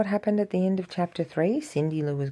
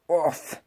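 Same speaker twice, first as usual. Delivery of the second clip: grunt. Acted. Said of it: "the Grinch grunted".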